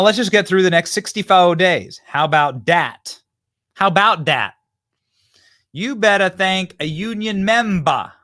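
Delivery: loud, slowed, hammed-up Southern imitation; mock Southern accent. Host parrots the candidate's Detroit speech, loud exaggerated Southern accent. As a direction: blast it out as a parody of a put-on Southern accent. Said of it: "Why is she talking like that?".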